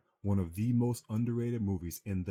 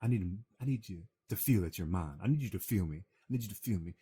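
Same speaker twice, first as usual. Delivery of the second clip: Cuba Gooding Jr. on the phone. Retold or imitated. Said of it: "is on the edge of the phone telling you".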